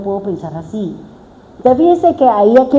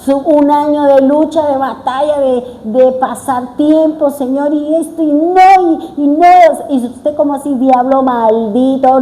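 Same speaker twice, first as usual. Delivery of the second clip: casi llorando; 4 semitones higher than usual. Retold or imitated. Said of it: "yo estaba que lloraba".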